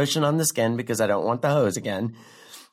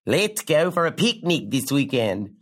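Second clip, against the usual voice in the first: lightly voiced Australian boyfriend; a hint of a badly faked Australian accent. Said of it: "doing a terrible Australian impression".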